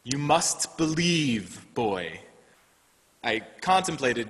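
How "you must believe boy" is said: put-on slow, solemn fatherly plea without a Scottish accent; father's plea, no accent. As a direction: urge him slowly, like a father. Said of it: "his father says to him".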